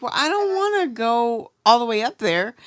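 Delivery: lightly fed-up, drawn emphasis on "wanna"; frustrated tone. Retold or imitated. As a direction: recount your own frustrated reluctance. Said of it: "frustrated tones".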